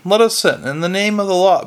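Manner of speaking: understated bellow in the name of the law. Acted. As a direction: demand entry, a touch of a bellow. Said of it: "bellowed Vimes".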